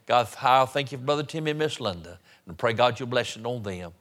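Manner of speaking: earnest pastoral prayer in short running phrases; public prayer. Real, not acted. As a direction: lead the congregation in thankful prayer. I want to pray.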